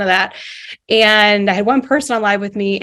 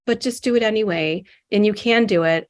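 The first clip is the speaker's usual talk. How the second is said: gently encouraging, a touch quieter; softer, kind voice; 3 dB quieter than usual. Retold or imitated. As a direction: soothe yourself into doing it. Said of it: "softer, kind voice".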